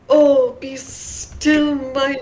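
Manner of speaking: slow breathy swooning quote; mock-swoon over a crush, drawn out; imitating Connor. Friends mimicking Connor's slow swooning line. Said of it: "that's the one that was like".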